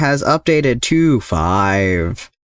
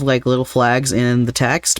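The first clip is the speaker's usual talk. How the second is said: usual speaking voice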